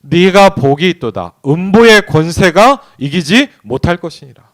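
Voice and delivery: loud, slow, ringing Bible reading; scripture read with force. Acted. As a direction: proclaim the verse slowly to the congregation. (크고 느리게 성경을 선포하듯)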